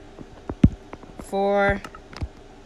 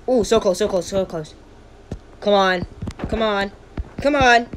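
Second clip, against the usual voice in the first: cheering on a fight; 3 semitones higher, 4 dB louder than usual. Real, not acted.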